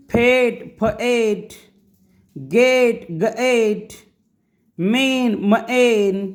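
very slow, each word split as क एक, फ एक; slow segmented reading. Shown as a demonstration. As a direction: stretch every sound for learners. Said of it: "तर मी असं का वाचलं".

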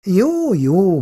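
calm the room down gently; conciliatory. A narrator's reading. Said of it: "mondja békülékenyen Szabó néni". (békülékenyen)

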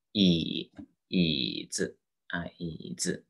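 椅子 with a light, unstressed 子; neutral-tone demo. Shown as a demonstration. Teacher models a word for students, 椅子 with 子 in neutral tone. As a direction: draw out 椅, drop 子 softly. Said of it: "轻声".

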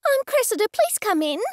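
high, nervous blurt; run together as one word. A narrator's reading. Nervous artist lets the gallery owner in, blurting it all as one word. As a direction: blurt it without a gap between words. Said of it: "She said it as one word".

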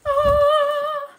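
high, loud "ah"; sudden loud high outburst; loud cry. Real, not acted. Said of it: "that was kind of loud".

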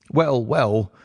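slightly reedy, evasive nervousness; nervous fashion. A narrator's reading. Patient dodging Holmes's question, mildly nervous. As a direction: hedge with a touch of nerves. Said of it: "in a nervous fashion".

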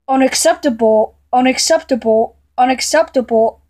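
loud, evenly repeated rebuke; emphatic scolding. Acted. Rebuking someone who did not listen, loud and emphatic. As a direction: hammer the same word out three times.

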